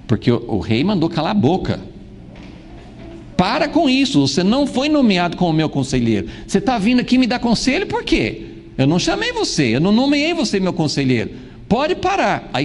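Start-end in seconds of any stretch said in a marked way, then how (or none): 3.3-12.5 angry king. Acted. Angry king silencing prophet.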